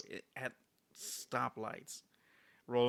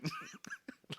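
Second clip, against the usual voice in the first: soft breathy laugh; 8 dB quieter than usual. Real, not acted. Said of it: "I'm just laughing the entire time".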